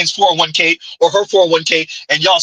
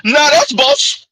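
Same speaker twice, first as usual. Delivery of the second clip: much higher, slow, simpering servile voice; mock servile; much slower than usual. Mocking the twins as servants pleading to a boss, simpering. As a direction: cringe and plead like a groveling servant. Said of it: "doing their best rendition of".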